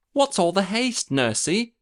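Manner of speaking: put-on high, eager little girl; lightly voiced young princess, curious; child princess voice. A narrator's reading. Princess asks her fleeing nurse, high and eager.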